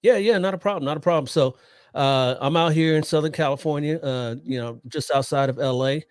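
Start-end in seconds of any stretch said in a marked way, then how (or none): none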